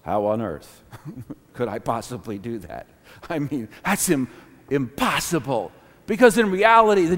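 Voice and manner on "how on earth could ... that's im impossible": low, softened self-talk; self-doubting inner voice. Acted. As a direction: doubt it quietly to yourself. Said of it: "we say to ourselves".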